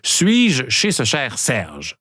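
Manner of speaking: slow, every syllable of «Suis-je chez ce cher Serge?» spelled out; slow tongue twister. Shown as a demonstration. Host models the twister slowly for listeners, deliberate. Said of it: "On y va avec le premier virelangue".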